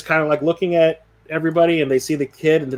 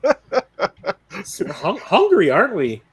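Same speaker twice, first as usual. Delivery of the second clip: laughing through the words; 4 semitones higher, much slower than usual. Acted. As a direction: giggle while saying it. GM voices Barry, laughing.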